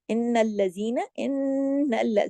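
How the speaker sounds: इन्नल्ल with न्न hummed long through the nose; voice hidden in nose. Shown as a demonstration. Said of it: "पूरी आवाज को आप नाक में छुपाएंगी". (इन्नल्ल, पूरी आवाज नाक में)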